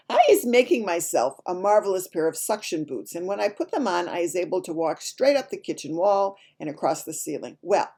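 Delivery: lively, emphatic storybook reading; animated story narration. A narrator's reading. Child narrator telling a dream from a storybook, animated narration. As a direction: read it with relish for young listeners.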